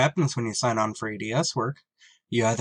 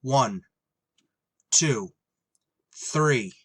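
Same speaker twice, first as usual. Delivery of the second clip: threatening shout; 3 semitones higher than usual. Acted. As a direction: order them out, gun drawn. Pilot threatens hidden stowaway.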